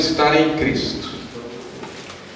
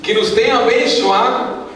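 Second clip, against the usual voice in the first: high, projected Bible reading; scripture reading; 7 semitones higher than usual. Acted. Pastor reading Efésios to the church, solemn declamation. Reads scripture aloud to congregation.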